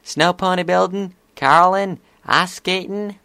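high-pitched filly listing ideas; eager filly. A narrator's reading. Filly suggesting winter games to friends, eager.

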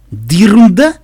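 loud, high, breezy brush-off; smiling dismissal. A narrator's reading. Husband brushes off her fear of danger, smiling. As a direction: wave the worry away with a smile. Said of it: "улыбнулся Каламити".

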